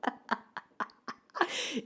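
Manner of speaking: real laughter about her nervous crying; laughing. Real, not acted. To viewers, real laughing while confessing. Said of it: "eu tô rindo agora".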